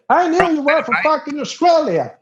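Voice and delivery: high, gloating cry; triumphant redneck. Retold or imitated. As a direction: gloat like you knew it all along. Local triumphant.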